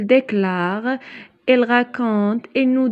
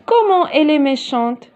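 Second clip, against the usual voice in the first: exclamative tone; 3 semitones higher than usual. Shown as a demonstration. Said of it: "je suis en train de dire".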